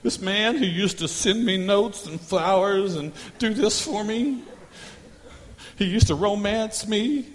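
a hint of a weary wife, slow and sighing; mock wife lament; wife complaining. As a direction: play the fed-up wife lightly. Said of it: "she is like".

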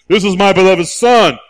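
belted out as the Father's proclamation. Acted. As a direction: announce it boldly to the crowd. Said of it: "You gotta have it, okay?".

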